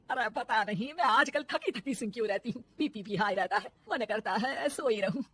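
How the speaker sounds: soft, weary tired complaining; tired complaint. Acted. Exhausted mother-in-law complains to husband, soft and weary. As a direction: sound worn out.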